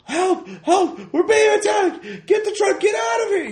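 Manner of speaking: very high, strained far-off shouting; distant yells. Acted. Workers heard under attack in the distance, high echoing yells. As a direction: yell for help as if from far away, echoing. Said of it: "distant yells".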